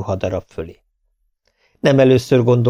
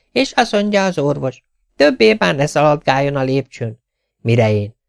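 lightly voiced tailor, higher, moaning about work; complaining tailor; 4 semitones higher than usual. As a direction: sigh over the endless work. Tailor continues doctor tale.

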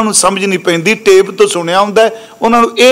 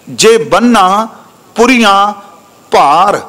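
slow scripture recitation; slower than usual. Acted. Preacher reciting scripture to the congregation, slow and measured. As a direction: draw each word out, slow and measured like a chant.

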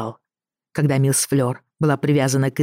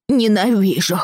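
put-on childish hate; 5 semitones higher than usual. Boy after spanking.

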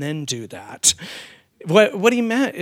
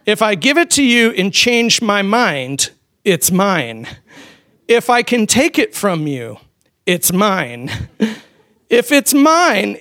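put-on toddler's battle cry; 3 semitones higher, 6 dB louder than usual. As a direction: shout it like a greedy toddler claiming everything. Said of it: "this is their battle cry".

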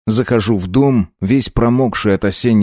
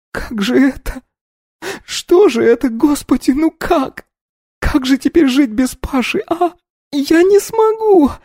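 put-on much higher, sobbing young woman's lament; despairing wail. A narrator's reading. Polina mourns Pasha she thinks dead, wailing. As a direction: wail in grief, slowing on the last words. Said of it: "кричит Полина".

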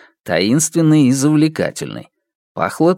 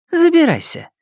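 high falling teasing command; smirking invitation. Acted. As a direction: order him in with a smirk. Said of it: "На её лице играла усмешка".

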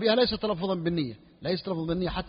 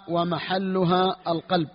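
slow dictation; 4 dB louder, much slower than usual. Shown as a demonstration. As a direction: stretch each word slowly for students copying. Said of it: "teacher dictates the matn slowly". (قراءة بطيئة للإملاء)

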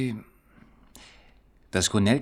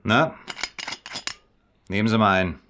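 jovial; 4 dB louder than usual. Acted. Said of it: "Sirk gibt sich jovial".

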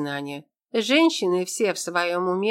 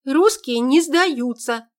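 defiant shout; 7 semitones higher, 5 dB louder, slower than usual. A narrator's reading. Defiant reply in standoff.

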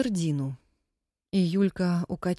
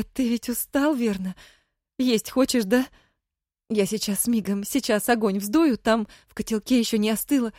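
high, bright and hurried; eager, happy chatter; 4 semitones higher, 4 dB louder than usual. Acted. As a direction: fuss over him, overjoyed. Wife fussing joyfully over husband.

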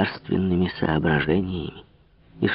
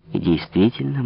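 plain reading voice

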